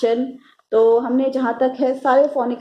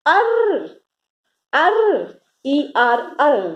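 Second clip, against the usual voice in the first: arr sound, raised; 3 semitones higher, much slower than usual. Shown as a demonstration. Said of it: "and says".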